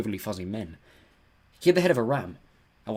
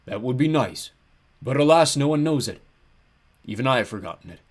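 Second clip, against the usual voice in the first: big, rueful giant's voice; melancholy ram god; 3 semitones higher, 7 dB louder than usual. A narrator's reading. Ram god has forgotten his name, melancholy. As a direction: lament it as a forlorn giant.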